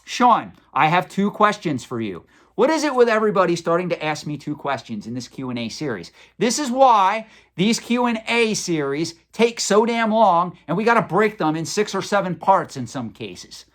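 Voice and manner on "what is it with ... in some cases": mock exasperated complaint; sarcastic grumble, pitch up on damn. Real, not acted. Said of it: "I'm just being sarcastic".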